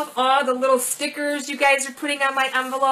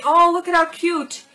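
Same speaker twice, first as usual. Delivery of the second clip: higher, louder squeal of delight; excited cooing at a present; delighted gush; 6 semitones higher, 4 dB louder than usual. Real, not acted. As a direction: squeal over the gift. Delighted by a candle set.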